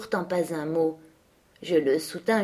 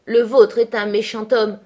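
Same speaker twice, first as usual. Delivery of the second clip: louder, indignant comeback; heated retort; 3 semitones higher, 7 dB louder than usual. A narrator's reading. Catherine retorting to Linton about his father, heated. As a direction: hit back forcefully for papa's sake. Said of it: "répliqua Catherine".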